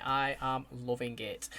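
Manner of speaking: quiet slow take. Real, not acted. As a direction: let it sink in quietly. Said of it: "I can't even say it enough".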